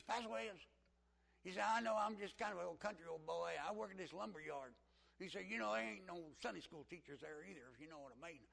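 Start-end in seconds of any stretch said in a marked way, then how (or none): 0.0-0.7 put-on country accent. Country man addressing his pastor in class, country accent. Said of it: "he would talk like this". 1.6-4.7 put-on loud, high country good old boy; country accent. Country lumber yard worker introducing himself, country accent. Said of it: "he would talk like this". 5.5-8.5 hint of a country good old boy; lightly imitated country twang; country accent. Country man talking in Sunday school, light country accent. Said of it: "he just talked like this".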